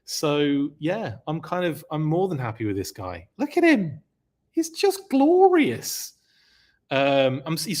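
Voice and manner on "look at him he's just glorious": much higher and louder, slow and gushing; voice shot up. Real, not acted. Gushing over the custom figure in a much higher voice. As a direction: squeal with delight at the figure. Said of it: "he's made my voice go up a few octaves".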